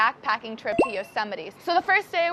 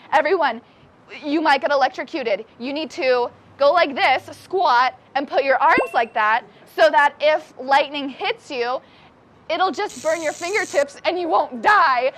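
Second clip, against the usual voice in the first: urgent call; 2 semitones higher, 5 dB louder than usual. Retold or imitated. Guide calling out in the storm.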